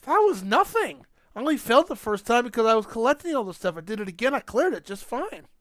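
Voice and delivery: high, fast bragging; dismissive brag. Retold or imitated. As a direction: brush it off as easy. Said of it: "I'm like".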